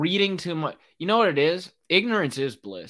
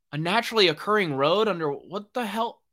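incredulous; 4 semitones higher than usual. Real, not acted. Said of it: "literally yelling at my T V screen".

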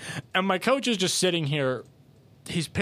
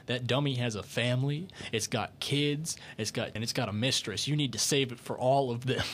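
mock whisper; 3 semitones lower, 5 dB quieter than usual. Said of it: "my buddy's whispering in my ear".

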